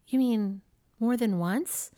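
slow, mock-incredulous question; retold bewilderment, drawn out; baffled disbelief. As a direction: ask it as if the idea is unfathomable. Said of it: "I couldn't even fathom".

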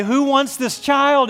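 high, loud, slow call to the whole arena; calling out to crowd. Retold or imitated. Dream arena announcer calling to the crowd, loud and drawn out.

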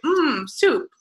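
escalating fumbled retakes; Joey. Retold or imitated. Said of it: "Joey was like".

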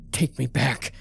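shouted demand. A narrator's reading. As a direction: bark the demand at him. Slamming him, demanding.

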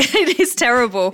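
real laugh breaking into the words; amused, laughing admission; laughing while talking. Real, not acted. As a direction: say it through a laugh. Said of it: "I'm laughing now".

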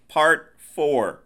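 loud, high mock-title call; section announcement. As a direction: announce it like a big title card.

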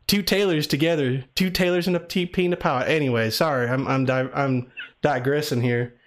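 lightly put-on Southern accent. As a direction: talk like a Southern caller. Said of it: "I like the country accent".

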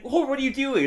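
a hammed-up scandalised wife; shocked Marge.

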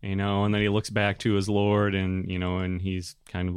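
usual speaking voice

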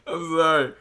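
usual speaking voice

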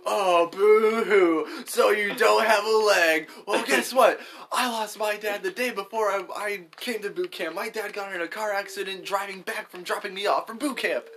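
mock weepy high voice, slow boo-hoo; fake crying. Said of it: "the people in the Marines are gonna be like".

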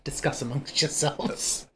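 Linda Richmond. Acted. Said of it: "Coffee talk with Linda Richmond".

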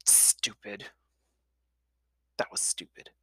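breathless whisper; boy scolds himself in a whisper; whispered self-reproach. A narrator's reading. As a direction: whisper it to yourself. Jack's inner self-reproach.

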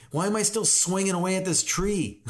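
high-pitched mock exasperation; put-on fed-up whine; whining. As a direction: complain like a worn-out chopper. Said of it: "whining and complaining all the time".

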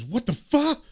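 acted startled outburst; super surprised. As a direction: blurt it in mock shock. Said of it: "super surprised".

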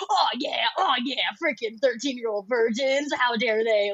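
a touch of hype-man cheering; mock cheer. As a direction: cheer it on like rallying the front row. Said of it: "And I go".

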